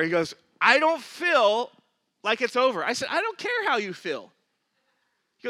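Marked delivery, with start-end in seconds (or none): 0.6-2.8 slow, loud, higher-pitched objection; drawn-out protest. Retold or imitated. Husband resists letting go of his anger, protesting slowly and loudly. 3.1-4.3 insistent retort. Retold or imitated. Pastor retorts to the husband.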